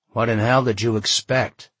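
mild grumpy retort; grumbling. Acted. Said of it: "he grumbled".

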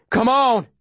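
high-pitched urgent cry; urging out loud. A narrator's reading. Runner urging himself on down the hill, urgent cry. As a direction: push yourself on, voice leaping up. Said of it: "I say out loud".

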